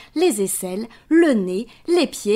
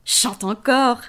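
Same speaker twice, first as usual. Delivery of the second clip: lion voice; slower than usual. Acted. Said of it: "ajoute-t-il".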